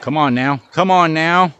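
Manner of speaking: coaxing rising to a loud plea. Real, not acted. Urging the ball, building.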